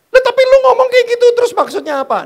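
shrieking high and fast in disbelief; baffled boyfriend. Retold or imitated. Boyfriend confused by her words, fast shrill squeal. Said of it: "cowok reply".

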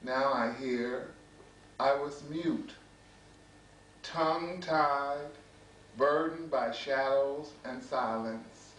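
measured poetry reading with deliberate pauses; poem recitation. Acted. Poet reading to an audience about brothers loving brothers, measured recitation. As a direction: recite line by line, letting each phrase settle. Reads another poem aloud.

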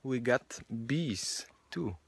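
talking while chewing cherry; words around a cherry; mouth full of fruit. Real, not acted. Seen 0: Puts red cherry in mouth at -1.0, then talks with jaw moving.

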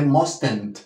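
MUSTN'T as "mos-tent", with a full E; wrong pronunciation. Shown as a demonstration. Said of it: "aquí no hay una E". (pronunciación incorrecta de "mustn't", con E)

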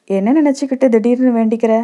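lightly mocking, a bit quick; teasing. Narrator teasing young Hema at the temple, lightly mocking. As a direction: tease her like a playful god granting boons. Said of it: "என்று கேலியாக".

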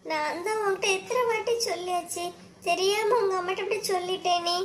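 high, tearful pleading; crying. Acted. Wife pleading with her husband, crying. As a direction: plead through tears. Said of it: "நீ இப்ப எதுக்கு அழுதுட்டு இருக்கா".

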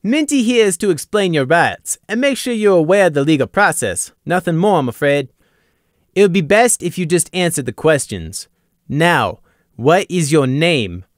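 guard ordering a suspect to answer, commanding; commanding rasp. A narrator's reading. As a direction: take control of the room. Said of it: "the rasp in his voice commanding".

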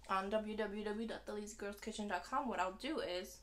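talking with a mouth full; words round a bite of food. Real, not acted. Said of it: "sorry, I didn't mean to talk with my mouth full".

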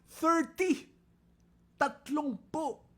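high, loud burst of amazement; thrilled shout of the number; excited exclaim. Real, not acted. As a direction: announce the number with triumph.

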